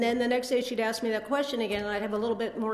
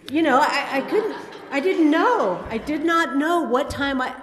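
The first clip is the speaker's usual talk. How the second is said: laughing; 6 semitones higher, 9 dB louder than usual. Real, not acted. Laughing at own confusion.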